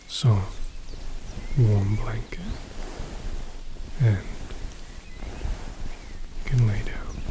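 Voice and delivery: breathy close whisper; hushed bedtime whisper. Acted. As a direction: whisper it as you tuck them in. Tucking listener in with blanket.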